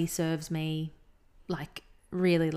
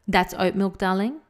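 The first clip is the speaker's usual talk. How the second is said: mock South African barista; 6 dB louder than usual. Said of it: "that was the accent I was trying to emulate".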